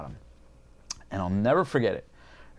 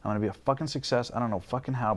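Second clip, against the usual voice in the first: retold fired-up resolve, slightly raised pitch; defiant vow; 3 semitones higher, much faster than usual. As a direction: rattle off the vows with mounting determination. Acts out vow after breakup.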